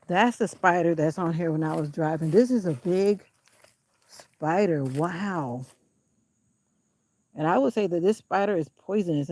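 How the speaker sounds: talking while short of breath; puffing between words. Real, not acted. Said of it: "I'm out of breath".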